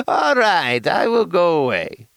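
hammed-up retreat, high pitched; silly high voice. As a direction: back off in a squeaky voice. Bit ends, high silly voice.

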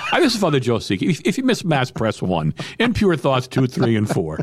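automated phone menu. Pretend. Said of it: "You dial it, I come on".

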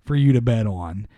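upbeat sponsor read, punchy. Acted. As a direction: sell it like a radio ad. Host reads sponsor ad.

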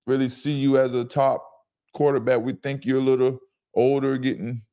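a hint of a smooth front-office boss letting a player down; polite corporate brush-off, lightly voiced. General manager coolly telling Baker he's not wanted, in a lightly corporate voice. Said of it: "You just went corporate on me".

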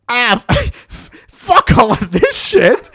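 high, loud, drawn-out swearing; acted exasperated outburst. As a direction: explode in mock fed-up fury. Friend snaps and fights back.

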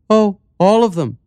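high, light mayor voice; lifted voice for the calm, strange mayor; village mayor. Acted. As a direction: play the eerily cheerful mayor.

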